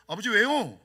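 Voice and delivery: calling father. Retold or imitated. Son calling his father from his room, loudly. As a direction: call out across the house.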